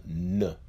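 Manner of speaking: "N" as "nuh"; letter sound N. Shown as a demonstration. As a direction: sound out "N" with a short schwa. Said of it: "is also pronounced as a".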